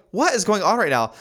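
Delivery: baffled aside; bewildered. Retold or imitated. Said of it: "I was like".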